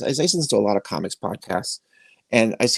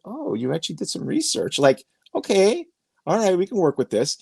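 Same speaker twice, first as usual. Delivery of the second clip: happy surprise; 5 semitones higher than usual. Retold or imitated. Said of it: "he could tell that he was happy".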